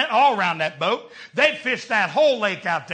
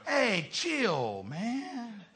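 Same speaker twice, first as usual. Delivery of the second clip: street talk; 9 dB quieter, much slower than usual. Retold or imitated. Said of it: "That's street talk".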